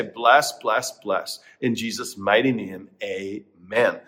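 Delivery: prayer. Acted. Pastor prays aloud.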